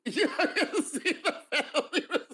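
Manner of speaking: high-pitched, words broken by laughter; laughing hard. Real, not acted. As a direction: crack up while speaking. Host cracks up at cousin joke.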